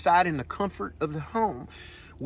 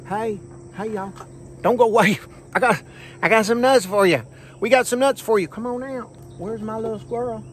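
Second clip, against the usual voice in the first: calling out; 6 semitones higher than usual. Real, not acted. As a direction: coax them out with an eager call. Calling squirrels out of the tree.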